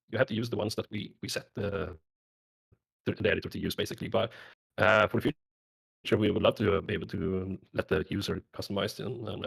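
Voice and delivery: glitchy robotic mic distortion. Real, not acted. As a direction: voice breaking up like a bad connection. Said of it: "your mic is robotic again".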